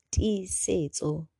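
"Tisetso" said very slowly, syllable by syllable; slow careful name. Shown as a demonstration.

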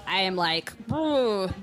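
low, halting mock-drunk ramble with long gaps; badly faked drunk. The speaker insisting to doubting friends she is plastered, badly faked drunk. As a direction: grope for each word as a fake drunk. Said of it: "You're acting kind of weird".

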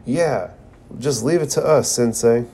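an eager, high, lightly retold yell; mock yell. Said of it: "erupts from the bottom of the frame and yells".

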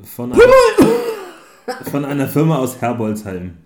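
talking around a candy; sucking a hard candy. Real, not acted. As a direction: lozenge in the mouth. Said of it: "der lutscht ein Bonbon".

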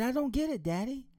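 put-on high, confused little girl voice; puzzled daughter. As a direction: pitch up like a puzzled child. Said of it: "She said".

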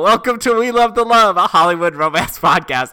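hammed-up show opening; podcast intro voice. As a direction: welcome listeners like a radio host. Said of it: "so let's start the show".

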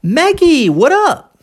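high swooping "Maggie", "what up" with tapped T; repeat-after-me model. Shown as a demonstration. Teacher giving a third form to repeat, high with tapped T. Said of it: "eu utilizei três sons diferentes".

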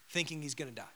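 usual speaking voice

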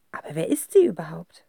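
whispered uneasy question. A narrator's reading. Narrator wondering about the countess, whispering. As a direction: hush it like a secret.

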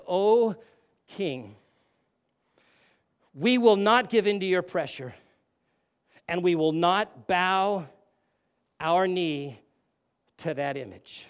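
a hushed, reverent refusal, firm underneath; sweet, soft reverence. Retold or imitated. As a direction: say it softly and respectfully to the king. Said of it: "I believe they said it sweetly, softly, and with reverence".

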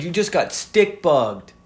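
spring the meme on them, slowly; meme imitation. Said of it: "That was a good meme".

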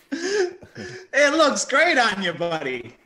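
a hint of a goblin, slow and pleased with itself; goblin wearing the coat. Goblin showing off the stolen coat, lightly voiced and slow. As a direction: drawl the praise out slowly like a smug goblin. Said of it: "he's all like".

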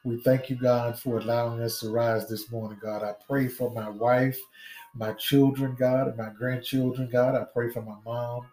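steady fervent prayer cadence. Real, not acted. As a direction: pray aloud over the congregation. Leads an opening prayer.

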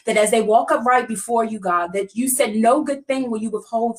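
earnest preaching prayer voice. Acted. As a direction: pray it with steady conviction. Leads a prayer.

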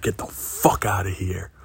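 harsh whispered order, no voice; breathless whispered brush-off; hissed get out. Retold or imitated. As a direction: whisper it sharply, pushing him out. Girlfriend tells him to leave.

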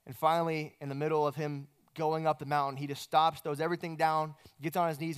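ordinary talk, nothing marked

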